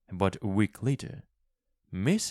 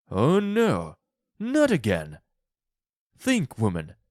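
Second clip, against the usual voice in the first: higher, louder dismay; fearful cry; 5 semitones higher, 5 dB louder than usual. A narrator's reading. Husband cries out fearing another wish, higher and louder. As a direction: beg her to stop. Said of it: "Mister White cried".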